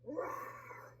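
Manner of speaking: soft, breathy mock roar; half-hearted dragon roar. A narrator's reading. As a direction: breathe out a hushed storybook roar. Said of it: "heard a roar that was scary and loud".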